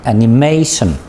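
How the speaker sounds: Animation, leaning on the MA; stress on Animation's third syllable. Shown as a demonstration. Teacher answers "how do you say it", Animation stressed on MA. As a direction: model Animation with a clear stressed MA. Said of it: "How do you say it?".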